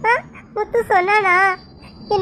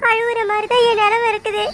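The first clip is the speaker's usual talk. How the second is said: crying. Acted. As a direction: speak while weeping. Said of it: "ஏன் அழுவுறீங்க?". (அழுதுகொண்டே மெதுவாக)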